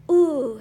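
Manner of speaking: loud, savoring "ooh"; sighing. A narrator's reading. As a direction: draw out a big contented sigh. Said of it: "sighed Don Diego".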